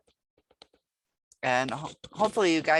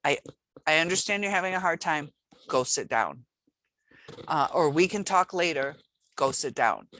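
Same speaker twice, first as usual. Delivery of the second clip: firm teacher. Shown as a demonstration. Teacher sending a student back to his seat, firm. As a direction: give the order plainly and kindly but firmly. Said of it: "you have to say".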